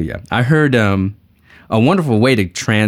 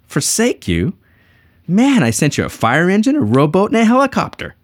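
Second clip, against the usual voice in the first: higher, rising exasperation to the punchline; amused God; 10 semitones higher than usual. Acted. God answering the drowned man, amused exasperation. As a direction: let God land the punchline.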